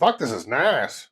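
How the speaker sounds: light Aussie twang, slow drawn-out; a hint of an Australian accent. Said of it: "You're trying to do the Australian accent".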